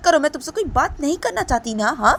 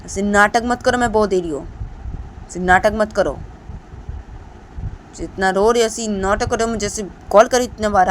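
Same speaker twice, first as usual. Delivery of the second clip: a touch higher, louder, scolding warning; stern scolding; 4 semitones higher, 7 dB louder than usual. Acted. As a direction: warn him off firmly. Deepanta keeps scolding.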